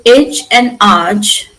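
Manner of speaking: EDGE as "ij" and ARCH as "ahj", slowly; suffix sounds. Shown as a demonstration. Teacher says both endings are maintained, slow suffix sounds. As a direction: draw out EDGE and ARCH as two distinct endings. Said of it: "are also maintained".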